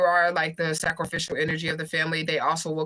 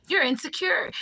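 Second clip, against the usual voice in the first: mock quote pitched higher, condescending; mocking accuser; 8 semitones higher than usual. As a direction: mimic a preachy accuser. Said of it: "and they say".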